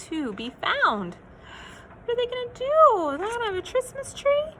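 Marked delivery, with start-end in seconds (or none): 2.0-4.6 worried question. Acted. Narrator asking kids, worried.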